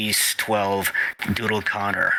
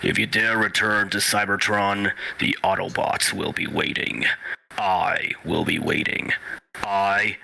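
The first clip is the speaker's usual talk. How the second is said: Optimus Prime voice. Shown as a demonstration. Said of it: "your Optimus is way better".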